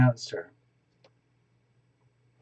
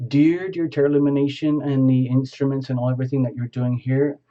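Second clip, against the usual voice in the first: spoken invocation. Shown as a demonstration. Showing the viewer how to bless a pendulum, prayerful invocation. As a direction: ask the crystal for a blessing as a sample prayer. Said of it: "do a little invocation, something like this".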